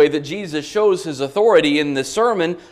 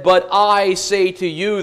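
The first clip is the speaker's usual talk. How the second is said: "I" lifted above the other words; stress on I. Shown as a demonstration. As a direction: put the contrast on "I". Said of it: "really emphatic on the pronoun".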